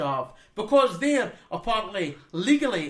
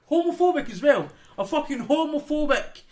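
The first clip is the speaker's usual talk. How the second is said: louder, higher angry rant; raging; 5 semitones higher, 4 dB louder than usual. Real, not acted. Ranting to his co-host about Putin, real angry rant. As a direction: spit it out in real fury. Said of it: "just seeing you kind of raging".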